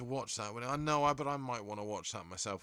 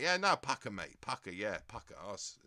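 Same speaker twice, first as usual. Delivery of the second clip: Essex mate. Retold or imitated. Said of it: "everyone from Essex has got that kind of thing".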